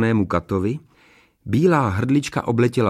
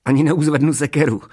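dwarf making excuses; 4 semitones higher, 3 dB louder than usual. A narrator's reading. Dwarf dodging the executioner's job, whining excuse. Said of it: "vymlouval se trpaslík Mekota".

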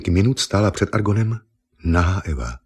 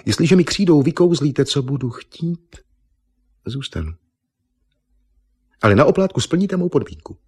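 put-on higher, coy bargaining young woman; bargaining Eva; 9 semitones higher than usual. Eva bargaining with the painter, higher and coy. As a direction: set a sly condition.

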